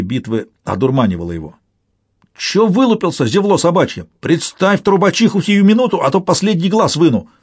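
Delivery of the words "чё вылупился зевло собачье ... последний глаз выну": put-on high girlish threat; high-pitched, bullying girlish voice; Tarakan's piercing girlish voice. A narrator's reading. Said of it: "раздался пронзительный девчачий голос таракана".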